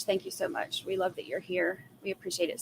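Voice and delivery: soft breathy whisper of thanks. Real, not acted. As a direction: drop to a whisper. Thanking viewers for super stickers.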